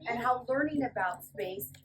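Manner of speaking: lively storybook read-aloud; reading to children. Acted. Teacher reading a fly's story to the class, lively. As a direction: read it brightly to a room of kids. Reading picture book to kids.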